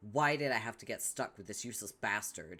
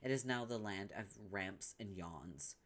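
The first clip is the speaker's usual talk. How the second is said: usual speaking voice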